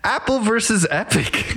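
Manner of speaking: stiff robotic announcer voice. Pretend. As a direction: say it like a robot, high pitched. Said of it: "introducing a new topic in a robot voice".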